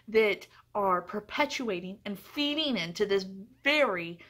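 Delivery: climbing into a real rant, words pushed out hard; passionate rant. Real, not acted. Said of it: "going on a rant".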